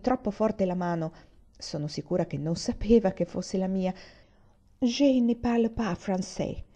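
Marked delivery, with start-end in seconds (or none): 4.8-6.6 slow, careful, holding excitement in; a girl forcing herself to stay composed; mild restrained eagerness; held-back excitement. A narrator's reading. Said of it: "sforzandosi ... di controllare la sua eccessiva eccitazione".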